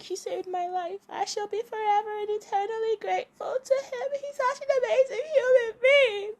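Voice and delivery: high, sing-song fake gratitude; mock gushing. Heroine gushes about her boss who saved her, high and overdone. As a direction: gush sweetly, pitched far up. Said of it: "And she's like".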